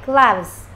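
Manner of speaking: "gloves" with a light V before the Z. Shown as a demonstration. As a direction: ease through the V in "gloves". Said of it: "âm V rất là nhẹ".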